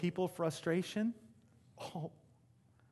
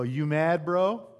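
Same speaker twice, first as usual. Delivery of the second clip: louder and higher, taunting online gamer; mocking gamer taunt; 6 semitones higher, 8 dB louder, slower than usual. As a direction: needle him like a smug gamer, rising louder. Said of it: "He'll go".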